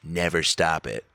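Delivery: slow, deliberate mock counsel; measured, direct imitation of a veteran actor; very direct advice. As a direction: say it slowly, like a star's final word. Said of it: "was a very direct".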